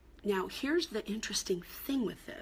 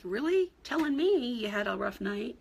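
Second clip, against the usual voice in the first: exasperated retort; 3 semitones higher, 5 dB louder than usual. Retold or imitated. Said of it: "they might be like".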